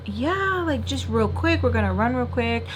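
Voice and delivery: imitating a breezy friend, high-pitched opening. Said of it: "And she's like".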